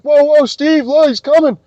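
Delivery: quick alarmed heads-up; urgent warning. Retold or imitated. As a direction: warn a friend that someone is charging. Teammates warning him of attack.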